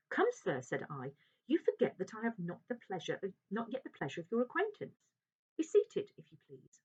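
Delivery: high, loud formal rebuke; doctor curtly correcting a rude stranger; stern gentleman doctor. Acted. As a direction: put him firmly in his place. Lanyon puts visitor in place.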